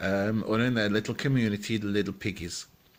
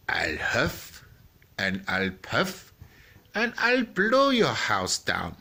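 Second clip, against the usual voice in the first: lightly voiced wolf, slow and deliberate, rising on the blow; storybook villain winding up a threat; big bad wolf; slower than usual.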